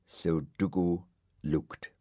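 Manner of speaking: usual speaking voice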